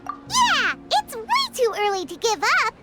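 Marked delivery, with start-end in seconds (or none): 0.1-0.7 high-pitched, eager exclamation; rallying cheer. Acted. Companion urges friends not to give up, cheering. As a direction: pipe up to rally the group.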